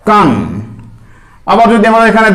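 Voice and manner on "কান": কান said KAAN, final n clear; modelling for students; sounded out. Shown as a demonstration. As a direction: land কান on the n. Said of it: "কাফ দু জাবার".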